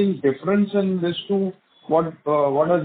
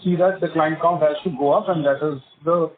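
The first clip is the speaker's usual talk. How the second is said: muffled voice. Real, not acted. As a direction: voice muffled as if through a hand. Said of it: "your voice is a bit muffled".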